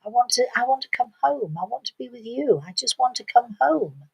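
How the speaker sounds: put-on understated child's plea to stay; tearful little girl. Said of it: "and she's crying".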